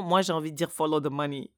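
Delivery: rattled off fast, "follow the money" slipped in quickly; fast, sly confession of "follow the money"; quick cheeky aside. Real, not acted. Rushed guilty admission of her advice to graduates. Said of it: "ça se fait pas".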